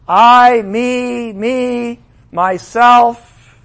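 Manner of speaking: puffed-up self-praise; boastful me me myself. Acted. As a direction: crow it like a vain king. King's proud boast.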